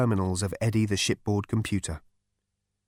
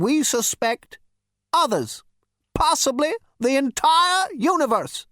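put-on high, grave old ghost; an ancestor revealing a secret; 14 semitones higher, 4 dB louder than usual. A narrator's reading.

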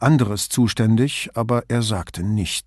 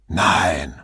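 lower-pitched, mildly affronted reply; almost offended; 5 semitones lower than usual. A narrator's reading. Sartor denies to Brunetti that interest was charged, almost offended. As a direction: answer as if slightly insulted by the question. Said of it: "Sartor klang fast beleidigt".

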